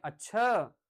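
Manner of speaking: "अच्छा" stressed and drawn out; बलाघात वाला अच्छा. Shown as a demonstration. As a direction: lean hard on "अच्छा" and stretch it. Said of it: "अलग-अलग ढंग का स्ट्रेस". (खींचकर, ज़ोर देकर "अच्छा")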